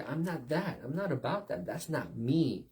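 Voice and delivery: high-pitched protest; acted-out objection; defensive refusal. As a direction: push back, voice lifted. Acting out an offended convert's refusal.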